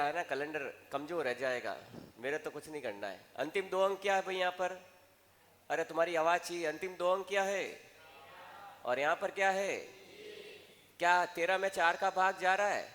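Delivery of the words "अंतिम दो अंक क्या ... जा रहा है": raised, higher classroom questioning voice; calling out to class. Real, not acted. Teacher prompting the class to answer aloud, calling out. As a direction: call the questions out loud for a response.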